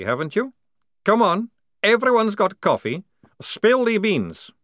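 threatening demand, rising in pitch and force; deliberate, emphatic interrogation; menacing coffee-craving Maledict. Acted. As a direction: build from deliberate menace to high, loud demand.

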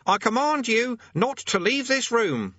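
high, slow pompous command; boy playing commander. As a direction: command it slowly in a high boy's voice. Boy commanding his demon.

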